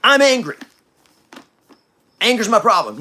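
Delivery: I'm angry said high and loud; loud, high I'm angry, owning it; honest declaration. Shown as a demonstration. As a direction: admit I'm angry with full force. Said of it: "start telling yourself the truth".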